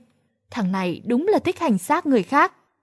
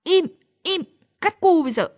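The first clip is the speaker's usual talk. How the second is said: a higher, put-on mock-scary threat; mock threatening; 6 semitones higher, faster than usual. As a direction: play at frightening a baby, half in jest. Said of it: "kiểu hù dọa".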